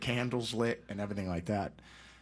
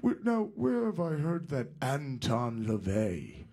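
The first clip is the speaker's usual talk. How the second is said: lightly voiced rock singer; 4 semitones higher, slower than usual. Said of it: "He goes".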